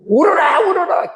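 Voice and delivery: high crying urge to weep; urgent cry. Acted. Preacher urging the congregation to weep, crying out. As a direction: cry out the command, pleading.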